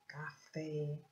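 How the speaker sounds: "café" split, weight on final "fé"; stress on FÉ. Shown as a demonstration. Teacher repeating for pupils, stress on the "fé" of "café". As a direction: lean on the last syllable of "café". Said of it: "a sílaba tônica é a sílaba forte".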